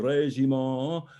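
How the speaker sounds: "régiment" slow, with a long rising last syllable; accent on RÉGIMENT. Shown as a demonstration. Coach shows the accent, "régiment" rising on its end. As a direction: stretch the end of "régiment" upward. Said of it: "the accent on the régiment".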